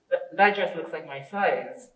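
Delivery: restrained take at ordinary volume; contrasting tone. Shown as a demonstration. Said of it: "big difference in the way that we convey".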